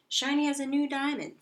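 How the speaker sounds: high, loud bragging; gleeful hamster showing off; proud boast. Acted. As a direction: show off the shiny wheel. Bragging about wheel.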